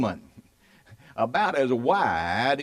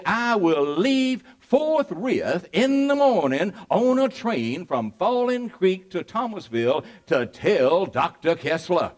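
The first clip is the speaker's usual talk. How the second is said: slightly raised, declaiming quote; mild mock proclamation; 2 semitones higher, 3 dB louder than usual. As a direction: lightly imitate a man announcing his resolve. Acted quote of Spillman's eager announcement.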